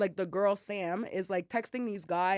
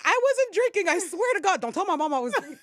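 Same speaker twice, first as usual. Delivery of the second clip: much higher and louder frantic denial; mock panicked pleading; 9 semitones higher, 6 dB louder than usual. Teen begging the police not to tell mom, frantic. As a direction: beg like you're about to be busted.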